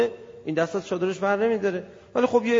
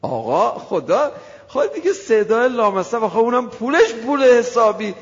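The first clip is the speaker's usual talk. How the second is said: thin fawning voice; 4 semitones higher, 6 dB louder than usual. Pretend. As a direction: voice thinned out, higher and louder, fawning over a rich man. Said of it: "خود به خود نازک شد".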